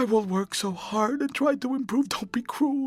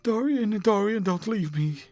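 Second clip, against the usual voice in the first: high, desperate begging near sobs; distraught, high-pitched entreaty swelling louder; passionate pleading; 7 semitones higher, 4 dB louder than usual. A narrator's reading. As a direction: plead with the lover not to leave, voice pitched high. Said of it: "A fit of passionate sobbing choked her".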